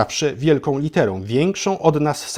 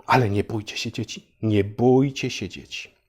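mock soothing; 2 semitones lower, 3 dB quieter than usual. Mock reassuring children again.

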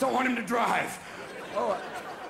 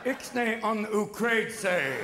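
covert warning; slower than usual. Retold or imitated. Room warning Bush covertly.

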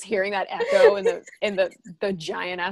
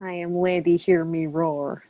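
put-on Russian accent; 2 semitones lower than usual. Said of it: "that sounded Russian".

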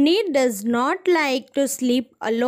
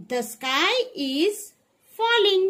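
ordinary delivery

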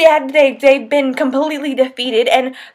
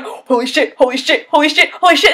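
reenacted freakout. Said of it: "I'm just like".

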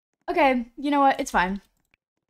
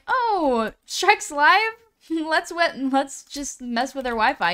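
Wi-Fi's sneaky voice; 5 semitones higher, 4 dB louder, slower than usual. Pretend. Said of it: "it just likes to trip me up".

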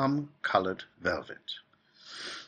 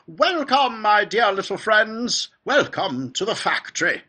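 high and fluty; 13 semitones higher, 7 dB louder than usual. A narrator's reading. Factory owner calling out to five children, high and fluty. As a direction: call out in a fluty, exuberant high voice. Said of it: "His voice was high and fluty".

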